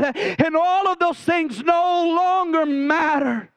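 preaching that climbs in pitch toward the climax; rising fervour, drive each line harder; building preaching. Acted.

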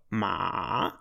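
"ma." dipping low then back up; low dipping third-tone "ma.". Shown as a demonstration. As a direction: drop "ma." down low and let it curl up. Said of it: "inflection of going down and up".

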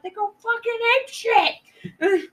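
mock hyped-up boat captain; excited yell. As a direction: blurt it out like it's the best news ever. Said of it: "And he's like".

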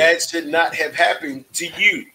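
gently validate like a therapist; calm crisis counselor. Pretend. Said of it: "I'ma say it like a therapist would say".

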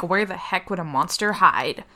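angry. Acted. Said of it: "Very angrily, by the way".

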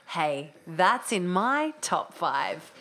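very slow voiceover drawl; very slow delivery. Shown as a demonstration. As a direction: stretch every word out. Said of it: "Can I try?".

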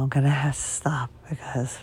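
weak, fading voice; losing voice. Real, not acted. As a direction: voice nearly gone. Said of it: "kinda like I'm doing now".

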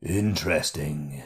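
low, musing king voice; thoughtful. A narrator's reading. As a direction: savour the word thoughtfully. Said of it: "with a look of deep thought".

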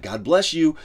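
high, loud, hammed-up blessings through gritted teeth; forced cheerful praying behind the wheel; mock frantic praise. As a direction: overdo the holy calm while furious in traffic. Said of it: "And it's just like".

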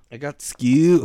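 put-on British schoolgirl; little British girl. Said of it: "I fucking love that video".

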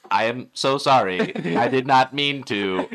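slow, mechanical text-to-speech apology; mock robotic apology. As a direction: plead like a slow speech synthesizer. Mock cheating husband apology.

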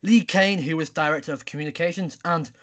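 mock newsreader with punched names; news read. Host opening the news round, newsreader delivery. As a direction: read it like a bulletin, hitting the openings.

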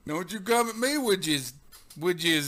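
put-on old prospector. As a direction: scold like a crusty old timer. Cranky old man voice.

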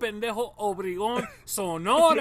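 hint of a scolding mom. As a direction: correct him firmly, loud. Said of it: "And she's like".

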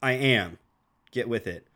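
stuffy nose, under the weather; nasal from a head cold. Real, not acted. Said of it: "apologize if I sound nasally. I am".

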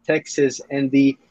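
slow, halting fake Texan with a British slip; attempted Texas accent. Shown as a demonstration. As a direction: East Londoner trying to be Texan. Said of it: "I can do a Texas accent".

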